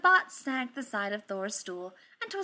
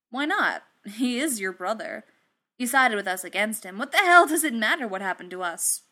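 louder, urgent challenge; heated arguing; 8 dB louder than usual. Acted. Tony pressing Thor about his brother, heated. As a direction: push back hard, voice jumping louder. Acted argument, pressing a friend.

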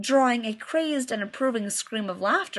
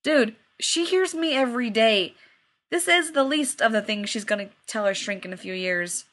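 unimpressed. Acted.

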